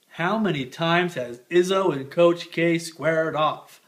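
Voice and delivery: slow, grand sportscaster delivery; put-on voice. Picking the bracket, mock slow announcer voice. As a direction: lay it on like a big TV announcer. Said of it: "why I'm talking like this".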